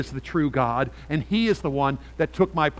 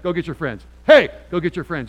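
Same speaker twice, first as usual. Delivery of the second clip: calling out; 4 semitones higher, 13 dB louder than usual. Retold or imitated. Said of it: "You see a kid, you go".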